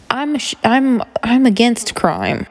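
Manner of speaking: high, slow, breathy earnest voice; Bobby Newport. Retold or imitated. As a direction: quote it like a clueless rich candidate. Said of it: "I feel like Bobby Newport".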